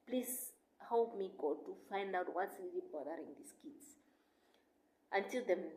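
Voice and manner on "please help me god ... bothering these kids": retold prayer. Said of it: "I prayed to God that".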